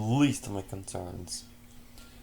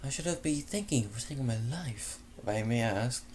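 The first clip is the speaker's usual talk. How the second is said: fancy exotic lady; 3 semitones higher than usual. Acted. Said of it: "fancy yet exotic tone".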